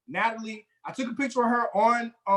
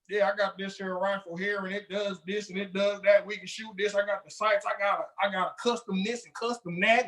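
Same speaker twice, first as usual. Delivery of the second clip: lightly voiced gun-bragging guy; a hint of a proud gun owner showing off; gun bragger; 3 dB quieter than usual. Mocking gun fans to a friend, lightly bragging. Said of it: "that's how they talk".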